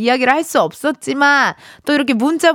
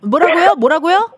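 rising, louder double take; surprised what; 4 semitones higher, 3 dB louder than usual. Real, not acted. Host asking back in surprise what the child said. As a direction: ask back in disbelief.

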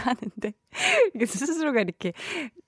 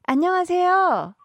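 bright cheerful greeting; 8 semitones higher, 4 dB louder, slower than usual. Real, not acted.

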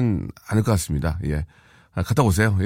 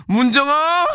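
high-pitched drawn-out shout of the name; shouted jingle; 14 semitones higher, 3 dB louder, slower than usual. Pretend. Radio host hollering a sponsor's name, high mock-jingle shout. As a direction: call out the name high and long.

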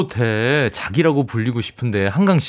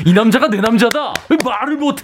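drama hero line; 8 semitones higher than usual. Retold or imitated.

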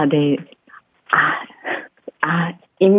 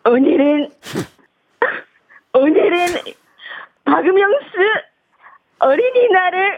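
put-on higher, halting Japanese-accented Korean; 11 semitones higher than usual. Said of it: "일본인 흉내내는 주현영 씨".

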